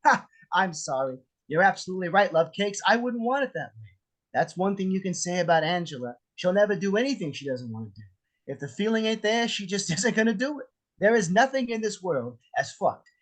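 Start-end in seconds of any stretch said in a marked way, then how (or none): 0.5-3.9 sarcastic sweet imitation; mocking Angela's voice. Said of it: "Something like". 9.5-10.7 laughing. Acted. Laughs mid-line.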